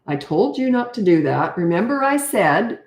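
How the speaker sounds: condescending parental scolding. Shown as a demonstration. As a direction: lecture as if talking down to a child. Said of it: "all that condescending stuff".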